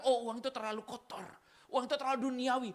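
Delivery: mocking pious tone; mock pious Christian. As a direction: sneer at money like a pious snob. Preacher mocks unrealistic Christian.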